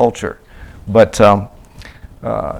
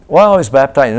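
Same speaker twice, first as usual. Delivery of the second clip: loud, higher mock reply; imitated answer; 4 semitones higher, 6 dB louder than usual. Missionary acting the believer's answer, loud. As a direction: defend yourself loudly.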